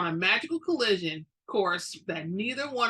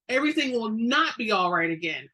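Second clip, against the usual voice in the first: understated angry roar, a touch louder; mild roar; 3 dB louder than usual. Acted. Witch refusing her friend's hope, mild angry roar. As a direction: push back firmly, half-hearted roar. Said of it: "I roared".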